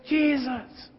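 lightly voiced worried father, quiet and urgent; pleading father. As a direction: beg him to come save your daughter. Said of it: "And he goes".

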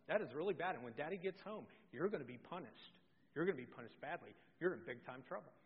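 low, soft, ominous scolding; mock prosecutor. Ten-year-old sister warning her sibling of punishment, mock-stern. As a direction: pass sentence like a child prosecutor, voice dropping. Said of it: "she's a prosecuting attorney".

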